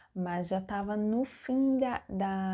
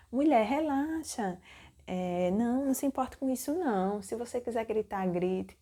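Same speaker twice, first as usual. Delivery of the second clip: lightly acted emphatic reassurance; a hint of an insistent doctor; imitated doctor; 3 semitones higher than usual. Doctor telling a labouring patient to relax, lightly imitated insistence. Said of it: "Desse jeito".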